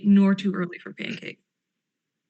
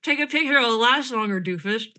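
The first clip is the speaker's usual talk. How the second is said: petulant; 3 semitones higher than usual. Acted.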